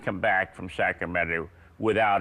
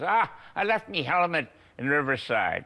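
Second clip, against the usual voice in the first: a light, raised Scottish accent, imitated; Jackie Stewart Scottish brogue; 6 semitones higher than usual. Jackie Stewart turning down a sprint car drive, in mock Scottish brogue. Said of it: "Jackie says in his Scottish brogue".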